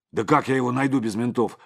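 sharp indignant outburst; bursting out in protest; flaring up. A narrator's reading. Креплёный вскидывается на лидера, резко и громко. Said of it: "взвился тот".

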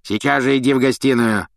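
put-on barked order from a grouchy old man; commanding caretaker. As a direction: order him off. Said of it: "скомандовал Филч".

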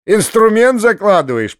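acted delighted, wheezy teasing; hoarse, choking with laughter. A narrator's reading. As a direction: scold him through suppressed mirth. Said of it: "прохрипел толстяк, захлёбываясь от смеха".

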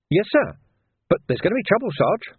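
high-pitched hesitant junior voice; worried young constable. A narrator's reading. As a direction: raise a doubt in a high voice. Worried young constable answers sergeant.

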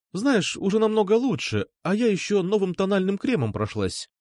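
a hint of a bubbly girl; lightly voiced girl. A narrator's reading. Alpha voiced higher.

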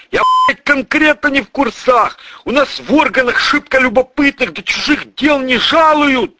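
high, loud desperate babble; cornered and terrified; frantic protest. Acted. Tortured cop pleads. (отчаянно, высоко и громко)

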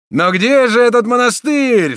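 desperate demand; anguished shout. Acted. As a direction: rage and grief together. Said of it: "вскричал маршал, побледневший от гнева и горя".

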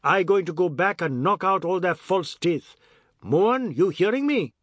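loud, high theatrical bawl. Acted. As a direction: bellow it out in melodramatic outrage. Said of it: "He bawled".

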